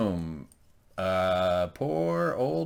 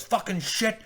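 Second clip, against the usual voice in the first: much higher, hammed-up furious rant; a lot higher mock Jaime plotting revenge; mock angry Jaime; 9 semitones higher than usual. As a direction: play the scheming hothead, pitched way up. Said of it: "So he goes".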